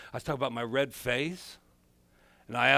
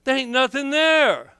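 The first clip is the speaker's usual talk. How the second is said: mock dismissive doctors; 9 semitones higher, 7 dB louder than usual. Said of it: "they're gonna be like".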